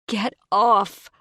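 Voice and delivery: shouted high in panic; desperate yell to get free; frantic cry. Acted. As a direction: shove him off, screaming. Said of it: "I cry".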